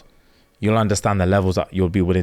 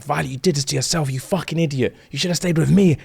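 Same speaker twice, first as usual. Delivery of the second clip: increasingly high-pitched mock indignation; acted hurt reproach; 7 semitones higher than usual. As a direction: act out a betrayed lover, pitch climbing. Acts out jilted lover's reproach.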